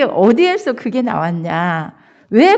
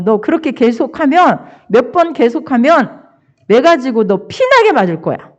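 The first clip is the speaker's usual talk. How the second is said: raised, loud scolding of a grandchild; angry scolding; 4 semitones higher, 5 dB louder than usual. Retold or imitated. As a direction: threaten him with a loud, rising voice. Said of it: "그렇게 화를 내면서".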